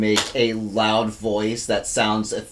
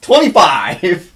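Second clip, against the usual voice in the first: loud, drawn-out, raised announcement; triumphant; 6 semitones higher, 8 dB louder, much slower than usual. Real, not acted. Player announcing a big intimidation roll, triumphant. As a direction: crow the big number slowly.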